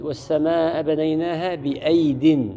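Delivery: slow, measured recitation of the verse; unhurried tajweed chant of the verse; Quranic recitation. Shown as a demonstration. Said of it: "مثل".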